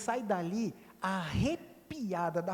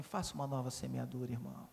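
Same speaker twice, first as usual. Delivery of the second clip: soft nudge; 10 semitones lower, 9 dB quieter than usual. Shown as a demonstration. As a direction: lower and quieter, confiding to a neighbour. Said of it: "Olha para ele e faz assim".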